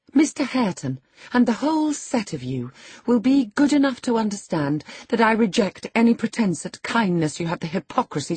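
high-pitched, haughty indignation; scornful tirade. A narrator's reading. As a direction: reject them all with proud contempt. Lady's scornful tirade at the household.

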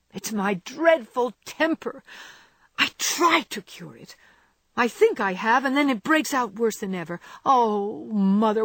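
put-on a girl despairing over her temper; despairing cry. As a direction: plead with your mother in despair. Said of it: "cried poor Jo in despair".

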